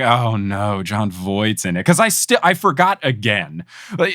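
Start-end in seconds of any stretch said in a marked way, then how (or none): 0.0-1.8 dismayed. Retold or imitated. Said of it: "I was like".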